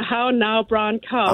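practising an Irish accent phrase; tentative Irish accent drill; attempted Irish accent. Shown as a demonstration. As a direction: try out Irish accent vowels. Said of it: "So I've been practicing the".

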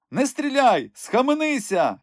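high, breathless cry in crone voice; panting shout. A narrator's reading. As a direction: call out while still running. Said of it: "відсапуючись, крикнув той". (високий задиханий крик)

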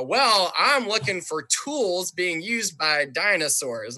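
a hint of a pompous professor; slow, lightly voiced boffin; stuffy scientist. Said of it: "guy with his mustache and his glasses going".

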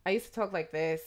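the accent I used to have; lightly put-on former accent; old accent. Shown as a demonstration. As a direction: slip into a former immigrant accent. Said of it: "I used to have an accent".

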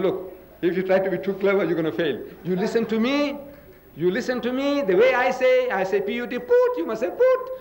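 insisting, high and laughing: "put" with a rounded u; a stern teacher, half-laughed, high; "put", like the word foot, not "pat"; retold stern teacher. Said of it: "He said".

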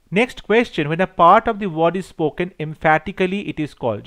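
reads the exam question slowly and deliberately; dictating each English word clearly to the class; slow question reading. Acted. Teacher reading a multiple choice question to students, slow and deliberate.

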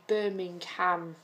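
Birmingham said slowly with a full, stressed HAM; American stress on ham. Retold or imitated. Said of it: "emphasise the ham".

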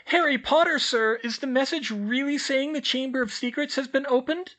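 very high, loud squeak; a tiny house-elf squeaking a greeting; squeaky elf. A narrator's reading. Elf greeting the children in a high squeak.

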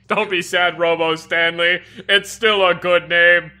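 robot voice. Pretend. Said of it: "in our robot voices".

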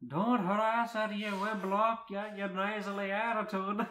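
high, loud, scolding character voice; Merida. Acted. Merida scolding Rita in story.

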